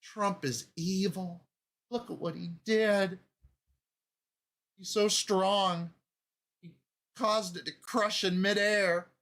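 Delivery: hammed-up awe and horror in a high voice; horrified mom. Mom reacting to Trump's throw, mock aghast. Still voicing the believing Mom.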